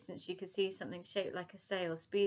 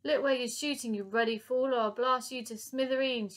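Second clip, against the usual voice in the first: high, loud furious scolding; angry cry; 5 semitones higher, 6 dB louder than usual. Acted. Lady Buckshot scolding the professor, furious cry. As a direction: blast the fool angrily. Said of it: "she cried".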